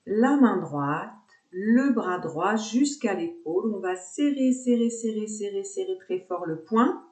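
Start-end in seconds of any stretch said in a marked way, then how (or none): 3.7-7.0 pitched-up insistent repetition, held tight; urging tension. Shown as a demonstration. Yoga teacher urging students to clench the fist, insistent. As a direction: drive the squeeze with steady repeated words. Urges squeezing the fist hard.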